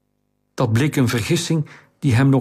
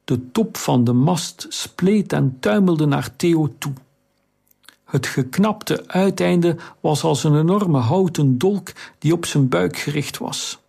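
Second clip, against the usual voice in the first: plain reading voice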